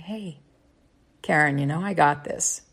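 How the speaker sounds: a humorous divine take-charge line; God. Acted. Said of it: "if God has this voice".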